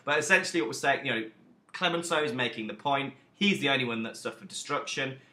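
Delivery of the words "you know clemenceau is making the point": ordinary talk, nothing marked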